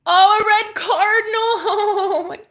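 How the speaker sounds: sudden high exclaim with a laugh; light up at the sight of the red bird; real surprised delight breaking into a laugh; delighted surprise. Real, not acted. Spots her grandma's cardinal sign.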